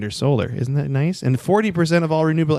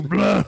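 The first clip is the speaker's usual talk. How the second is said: vomiting; 6 semitones higher than usual. Pretend. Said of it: "That's my puke sound".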